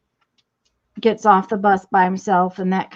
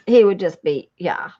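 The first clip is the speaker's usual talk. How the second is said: whispering; 4 semitones lower than usual. Acted. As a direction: breathe it as a whisper. Mock whispered aside.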